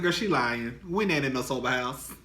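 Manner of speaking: a touch of smug denial; dismissive denial. Retold or imitated. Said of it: "Girl, I said".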